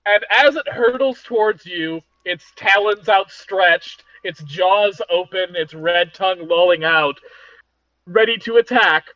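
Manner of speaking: measured cliffhanger build, dropping at the end; game master narration. A narrator's reading.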